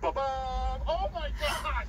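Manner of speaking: a sudden, thrilled cry of delight; excited outburst. Real, not acted. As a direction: burst out with happy surprise. Live giveaway draw result.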